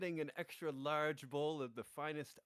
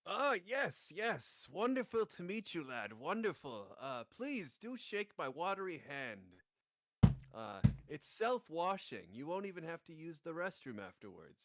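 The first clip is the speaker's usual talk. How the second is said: slightly raised, fussy host voice; Shen in character; 2 semitones higher than usual. Acted. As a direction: play the overly polite creature.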